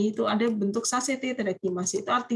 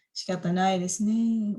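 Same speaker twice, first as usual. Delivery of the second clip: slow, grudging "Shikatanai desu ne" with a falling end; a slow, half-hearted, sighing yes; reluctant, unwilling. Shown as a demonstration. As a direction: say "Shikatanai desu ne" slowly, as if agreeing against your will. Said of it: "Waduh, ini nggak ikhlas nih".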